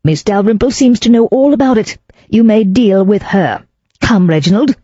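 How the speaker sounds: haughty proclaiming. Acted. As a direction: announce it like she owns the house. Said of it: "she proclaimed".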